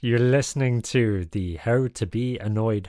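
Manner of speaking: put-on salty old sea captain host; gruff old fisherman. Podcast host character.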